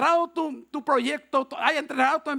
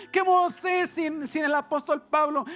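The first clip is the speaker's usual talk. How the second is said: imitating upset disciples, slightly raised pitch; mock distraught lament; 3 semitones higher than usual. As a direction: plead as the bereft followers, lightly acted. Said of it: "los discípulos llorando, muchos gritando". (lamento angustiado, levemente actuado)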